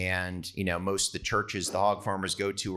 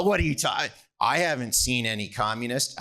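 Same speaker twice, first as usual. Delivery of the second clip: higher-pitched, feigned innocence; mock dismissive denial; 4 semitones higher than usual. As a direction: brush it off as if absurd. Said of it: "he just chuckles".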